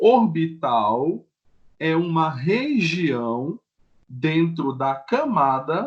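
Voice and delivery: slow, deliberate pacing, word by word.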